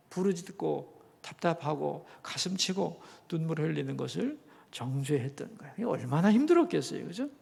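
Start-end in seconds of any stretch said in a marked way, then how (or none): none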